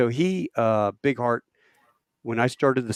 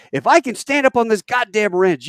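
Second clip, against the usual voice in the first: raised, loud angry challenge; indignant radio demand; 10 semitones higher, 7 dB louder than usual. Retold or imitated. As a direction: shame the pilots over the radio. Berating helicopter pilots over radio.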